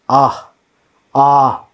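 short open "ah", standing alone; teacher isolating "ah"; vowel demonstration. Shown as a demonstration. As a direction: sound out "ah" as a free vowel. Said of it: "U here".

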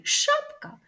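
high teasing rise on "Шапка"; high playful question. Acted. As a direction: ask it like a cheeky guess. Playful question in kids' poem.

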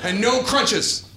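slow, drawn out. Retold or imitated. Dad adds punishment.

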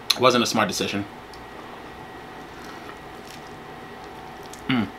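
talking between bites; speaking with food in mouth; mouth full, chewing. Real, not acted. Seen 4: Holds soft taco, bites and chews while speaking throughout.

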